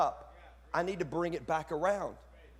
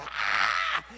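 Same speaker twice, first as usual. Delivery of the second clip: preacher's excited "ah" outburst; excited yell; 10 semitones lower, 4 dB louder than usual. Shown as a demonstration. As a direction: let out a short preaching yell. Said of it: "I get excited. I'm like".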